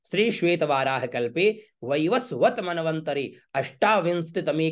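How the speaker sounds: measured, ceremonial mantra recitation; Sanskrit recitation. Shown as a demonstration. Priest shows worshippers the sankalp, formal Sanskrit recitation. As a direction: recite the sankalp formula syllable by syllable.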